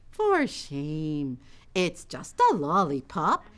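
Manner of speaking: low, slow shaming; lightly voiced disapproving mom; scolding mother. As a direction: chide the older child slowly. Mother scolds older sister.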